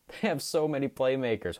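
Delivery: words dragged out like a machine; robot voice. Real, not acted. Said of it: "I'm talking like a robot".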